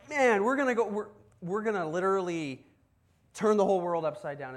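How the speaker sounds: like a zealot on fire; fired up. Acted. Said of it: "he's just, like, on fire".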